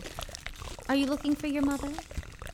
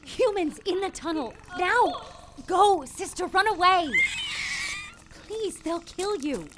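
urgent warning; 8 semitones higher, 4 dB louder than usual. Acted. Urging the ant to flee.

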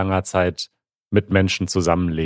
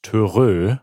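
elephant trumpet; 2 semitones higher than usual. Shown as a demonstration. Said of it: "du hast es grad schon vorgemacht".

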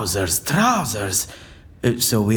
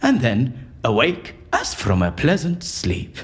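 theatrical verse recitation. Acted. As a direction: recite the verse like a stage actor casting a spell. Continues the Shakespeare recitation.

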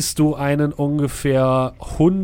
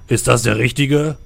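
booming knight voice; 5 dB louder than usual. Acted. The knight asks from above.

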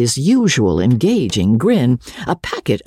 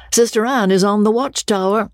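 high, teasing mock call; joking; 11 semitones higher than usual. A narrator's reading. George teasing Amelia on entering, high playful mock announcement. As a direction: tease like a merry young officer. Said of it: "Enjoying the joke hugely".

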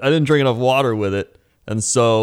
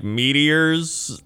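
put-on Valley Girl voice; 5 semitones higher than usual. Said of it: "in, like, a Valley Girl voice".

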